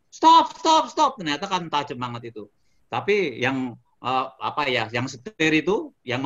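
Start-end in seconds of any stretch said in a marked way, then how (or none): 0.1-1.1 loud, high, repeated shout; re-enacted scream. Rider begging the swing ride operator, high panicked yell. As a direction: cry out in panic to halt the ride. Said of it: "saya udah teriak".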